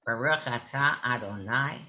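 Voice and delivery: lightly voiced Milwaukee twang; a touch of Wisconsin twang; Midwestern twang. Shown as a demonstration. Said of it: "a real Midwestern twang".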